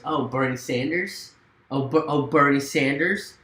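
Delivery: rising, indignant nagging tone; mocking the woman comic. Comic scolding a Bernie fan outside an open mic, indignant. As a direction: needle him like the scolding comic. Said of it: "she goes".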